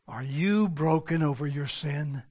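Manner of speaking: low, soft appeal; searching question. Real, not acted. Preacher asks congregation about their brokenness, low searching question. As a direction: drop down and ask it gravely.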